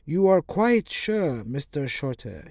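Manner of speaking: slow, high, pointed question; probing. Acted. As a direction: press him, drawn out. Basil pressing the vicar.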